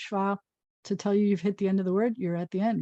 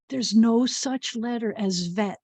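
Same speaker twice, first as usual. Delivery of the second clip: slow, confiding "no such letter"; secret reveal; slower than usual. Real, not acted. Teacher sharing a secret with the children, slow and confiding. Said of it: "here's the secret".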